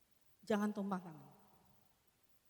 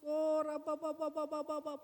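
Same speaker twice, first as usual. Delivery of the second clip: tongues prayer; 4 semitones higher, 4 dB louder than usual. Shown as a demonstration. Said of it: "jangan dilihatin efeknya".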